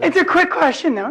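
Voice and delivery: hoarse, barely-there voice from a cold; lost voice. Real, not acted. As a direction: talk through a raw, croaky throat. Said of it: "this is the cold".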